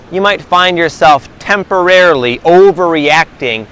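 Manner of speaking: temporarily slowed and leaned on, each syllable drawn out; stress on temporarily. Shown as a demonstration. Vlogger stressing temporarily for his viewers, slow and weighted. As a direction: land hard on temporarily, slow through it. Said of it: "emphasizing the word temporarily".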